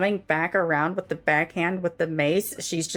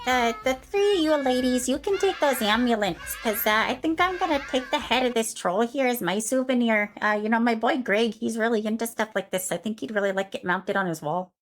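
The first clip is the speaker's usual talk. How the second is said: Karen voice; 4 semitones higher than usual. Acted. Karen chatting to the ladies.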